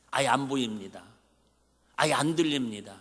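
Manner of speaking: ordinary talk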